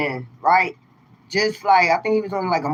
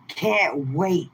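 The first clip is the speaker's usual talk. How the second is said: low eerie demon voice; 3 semitones lower, 5 dB quieter than usual. Pretend. Mock demon voice again.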